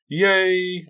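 high, loud cheer; gleeful squeal held out; happy cry. A narrator's reading. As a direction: cheer with delight, voice right up. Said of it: "I cried happily".

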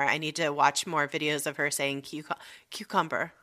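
soft hushed whisper. Retold or imitated. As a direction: drop to a whisper. Whispered part of the quote.

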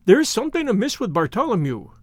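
panicked outburst from a scared man; frightened cry. Acted. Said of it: "he cried".

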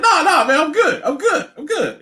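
high, carefree insisting; mock breezy reassurance. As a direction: brush off worry lightly. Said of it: "And you're like".

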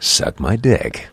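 slow, drawn-out announcer read; deliberate, performed voiceover delivery. Shown as a demonstration. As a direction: stretch it out like a movie voiceover. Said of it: "in voiceover voice".

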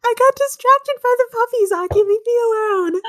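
high laughing voice. Real, not acted. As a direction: giggle through the words. Player laughing, high and loud.

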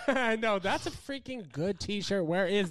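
high, laughing delight. Real, not acted. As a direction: laugh through the words. Laughing at the shirt.

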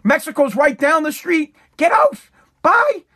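hammed-up dad ordering the kid out; dad laying down rules. Host voicing a dad evicting his kid, mock stern shout. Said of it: "That's dad style".

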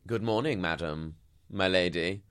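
hammed-up servant addressing a lady; mock deferential greeting. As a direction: lay on exaggerated courtesy. Listener parodies deferential greeting.

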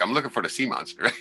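half-laughing confession, amused at himself; laughing reply. Retold or imitated. Answering the skipper's question with a laugh, laughing.

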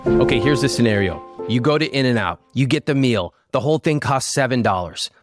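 lively sponsor pitch; ad read. Acted. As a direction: sell it like a podcast ad.

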